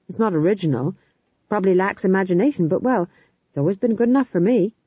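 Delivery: nervous rambling jester; flustered bumbling goofy. Acted. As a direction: babble on sheepishly, speeding up. Fool rambles apologetically.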